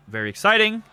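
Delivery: flat, dry "very exciting"; monotone. Pretend. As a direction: say it deadpan, unexcited. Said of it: "to make it sound very exciting in my monotone voice".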